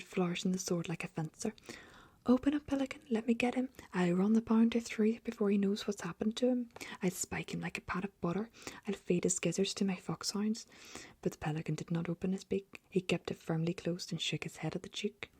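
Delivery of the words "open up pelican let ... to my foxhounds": blustering demand. Acted. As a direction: bluster and brandish the sword. Duke brandishing sword, demanding.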